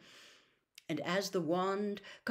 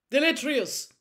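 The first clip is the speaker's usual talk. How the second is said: raised, forceful incantation; shouted spell; 8 semitones higher, 6 dB louder than usual. A narrator's reading. Wizard banishes the smoky skull, shouting. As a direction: call out the spell sharply. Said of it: "Mister Diggory shouted".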